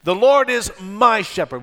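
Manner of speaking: "my" lifted and leaned on; stress on MY. Shown as a demonstration. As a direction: say it with clear emphasis on "my". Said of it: "with the emphasis on my".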